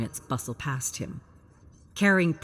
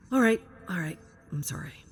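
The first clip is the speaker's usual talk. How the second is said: sheepish apology; 3 semitones higher, faster than usual. Acted. Gabriel backing down, apologizing.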